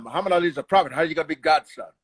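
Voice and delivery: fast-talking hype man impression; Bundini Brown. Comedian recalling his film role, impassioned cornerman impression. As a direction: run it together in a put-on character voice. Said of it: "uh, Bundini Brown".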